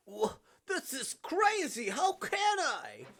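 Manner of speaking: high, loud cry of disbelief; shocked, high-pitched outburst; horrified protest. Acted. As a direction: shout it in horrified refusal. Character protests the demand to kill.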